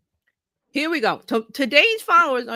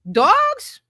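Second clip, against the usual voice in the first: high, loud squeal of a word; excited exclamation; 13 semitones higher, 7 dB louder than usual. Real, not acted. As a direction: shoot the pitch right up, louder. Exclaims about eager dogs.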